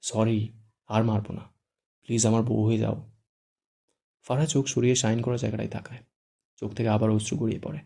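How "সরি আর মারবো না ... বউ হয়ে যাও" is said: slow, coaxing plea; pleading tone. Acted. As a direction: coax her gently into saying yes. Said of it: "শুদ্ধ আবদারের সুরে বলে".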